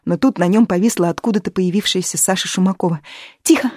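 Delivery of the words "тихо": higher, quick urgent hush. A narrator's reading. Sasha hushes Fyodor, quick urgent hush. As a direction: shush him fast. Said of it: "быстро выговорила она".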